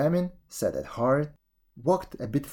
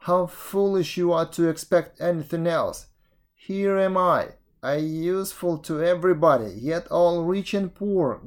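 higher, complaining road voice; aggrieved road; 5 semitones higher than usual. Acted. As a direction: lament being trampled on.

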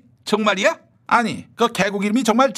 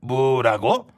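shocked stammer; 8 semitones lower, much slower than usual. Acted. Shocked stammer at crude word.

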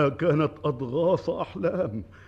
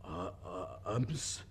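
stunned; 6 semitones lower, 9 dB quieter than usual. Acted. King stunned by the news.

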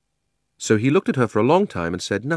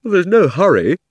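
higher and louder, stretched through a huge yawn; 9 semitones higher, 8 dB louder than usual. A narrator's reading. Drowsy Diggory tells Polly there is no hurry, yawning. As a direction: yawn the words out lazily. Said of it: "said Diggory with a huge yawn".

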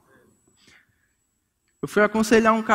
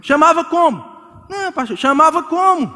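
higher, louder puzzled question; puzzled couple; 7 semitones higher, 3 dB louder than usual. Retold or imitated. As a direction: ask it with exaggerated confusion. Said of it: "couple asking pastor".

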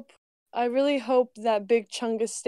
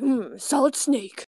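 Solid Snake voice; 2 semitones higher, slower than usual. Retold or imitated. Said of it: "where he's like".

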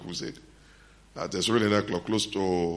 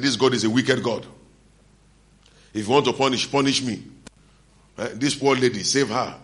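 louder, higher mock lament to God; retold tearful complaint; 4 semitones higher, 5 dB louder than usual. Preacher retelling his blasphemous complaint to God, retold tearful complaint. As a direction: plead angrily, as if near tears. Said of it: "And I started crying".

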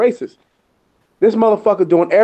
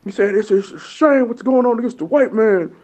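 mocking coworker voice; 5 semitones higher than usual. Imitating the racist coworker.

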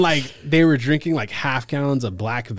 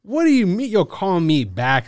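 much higher, louder indignant rant; mock outraged ego; 12 semitones higher, 8 dB louder than usual. Guest retelling his indignation at James, high and loud. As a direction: puff up like a big shot insulted. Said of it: "And I'm like".

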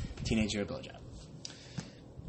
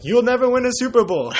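higher, louder furious fan yell; mock angry yell; 10 semitones higher, 10 dB louder than usual. Mugged fan yelling at the commissioner, mock furious.

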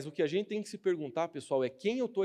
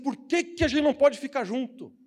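soap opera plea; 7 semitones higher, 4 dB louder than usual. Retold or imitated. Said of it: "Parecia novela mexicana".

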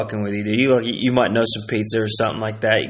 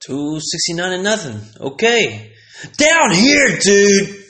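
delivery guy calling; 4 semitones higher, slower than usual. Retold or imitated. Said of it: "pizza guy was like".

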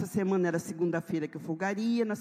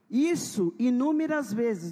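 normal talking voice

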